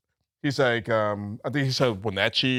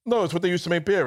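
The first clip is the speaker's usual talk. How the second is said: put-on high drunk voice; 5 semitones higher, faster than usual. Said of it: "And you're like".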